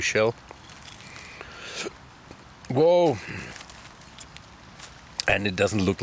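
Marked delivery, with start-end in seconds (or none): 2.7-3.2 surprised. Real, not acted. Sudden exclamation at a find.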